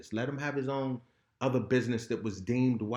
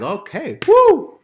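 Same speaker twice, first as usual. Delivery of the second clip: sudden high whoop of relief; mock celebration; 13 semitones higher, 19 dB louder, slower than usual. A man mocking his relief at being proven right. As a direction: whoop it out, finally free. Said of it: "I'm like".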